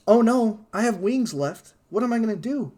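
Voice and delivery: high, loud fake alarm; mock panic. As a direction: panic like a commercial actor. Acted panic in ad.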